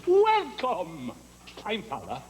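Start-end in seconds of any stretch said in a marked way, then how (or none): 0.1-1.1 drawn-out, loud gushing greeting; effusive welcome. Acted. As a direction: stretch out the name to flatter the boss. Teacher greets new headmaster eagerly.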